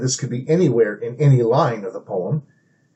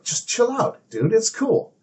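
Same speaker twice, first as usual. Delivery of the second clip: mock soothing; 9 semitones higher than usual. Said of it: "treating himself like a child".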